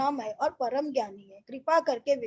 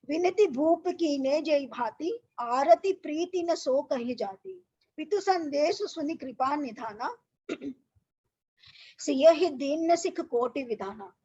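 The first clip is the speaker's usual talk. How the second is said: slow, measured chanting of the doha; verse recitation. Acted. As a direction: recite it like a Ramayana reading. Teacher recites Ramayana verse. (धीमा, लयबद्ध दोहा पाठ)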